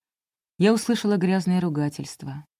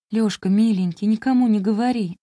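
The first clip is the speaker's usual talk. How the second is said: louder, pleading through tears; tearful plea; 3 semitones higher, 4 dB louder than usual. Acted. Нина сквозь слёзы умоляет Лёшу молчать, громче и жалобно. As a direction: beg him to keep silent. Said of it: "Я заплакала".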